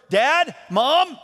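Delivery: high, loud call for the parents. Retold or imitated. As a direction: call out anxiously into the night. Calling from the front porch.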